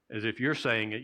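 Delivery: usual speaking voice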